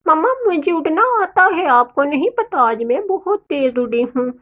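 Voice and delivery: high first call, then eager chick; lightly voiced child showing off; boastful child bird. Little Dolly tells mamma about teaching flying, boastful.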